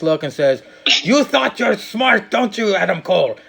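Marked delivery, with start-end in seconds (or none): 1.0-3.4 lightly faked English accent, not quite landing. A podcaster doing William Regal in an English accent. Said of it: "I can't do the accent".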